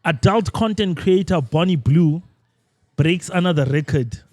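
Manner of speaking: slow, deliberate headline read; verbatim reading. Real, not acted. Host reads a post to the group, slow verbatim reading. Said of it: "I'm gonna read this verbatim".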